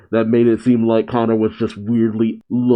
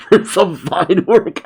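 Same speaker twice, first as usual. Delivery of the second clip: higher, slower, chuckling praise; laughing mock approval; 8 semitones higher, 3 dB louder, slower than usual. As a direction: ham up the creepy dad's approval. Laughing imitation of creepy dad.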